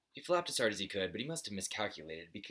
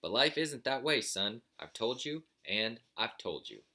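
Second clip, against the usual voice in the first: put-on preachy old buzzard; 4 semitones higher, 5 dB louder, slower than usual. Father buzzard lecturing.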